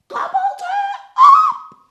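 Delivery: shrieked high and loud; gleeful gobble. A narrator's reading. Narrator relishing the gobbling, high shriek. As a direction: burst out with a big gleeful cry.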